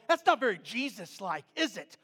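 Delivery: loud mock reproach; hammed-up righteous disapproval; imagined indignation. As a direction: act out a pointed, scolding challenge. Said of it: "that's how I respond".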